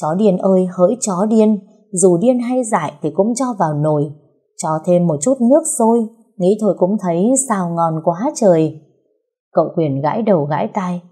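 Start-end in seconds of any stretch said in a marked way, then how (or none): 0.0-8.8 deliberately loud. Acted. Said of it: "Cô cố tình nói to".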